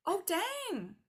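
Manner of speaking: high, chirpy self-congratulating voice; smug prepared self. Retold or imitated. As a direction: brag to yourself in a bright high squeal. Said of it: "We are like".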